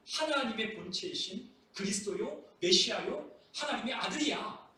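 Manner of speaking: mildly exasperated teacher; a touch of frustrated reproach; acted frustration. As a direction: plead to be understood, pitch lifting in places. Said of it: "예수님께서 답답하신 거예요".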